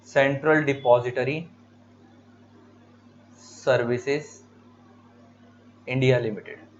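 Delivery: slow dictation with long pauses between words. Shown as a demonstration. Teacher dictating an exam full form to students, slow with pauses. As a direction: spell out the full form word by word for notes. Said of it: "ये full forms याद रखनी जरूरी है".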